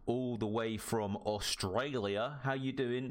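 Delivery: a bad stab at an Australian accent; hammy, half-hearted Aussie accent; terrible Australian accent. Shown as a demonstration. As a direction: badly fake an Australian accent, lightly. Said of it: "That was my Australian accent. That was terrible".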